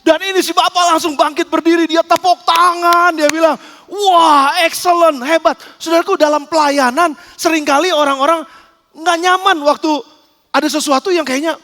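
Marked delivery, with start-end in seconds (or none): 3.9-5.6 loud, drawn-out admiring exclamation; impressed praise. Acted. Passenger applauding the flight attendant's effort, loud and impressed. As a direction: burst out in delighted approval.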